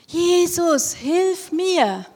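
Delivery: high, loud cry for help; loud calling out. Acted. Blind beggar calling loudly to passing Jesus. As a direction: call out to Jesus across the crowd. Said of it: "hat ganz laut gerufen".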